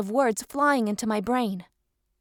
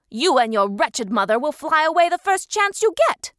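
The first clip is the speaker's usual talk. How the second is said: angry accusation; 5 semitones higher, 5 dB louder than usual. Acted. Alpha accusing Nova angrily.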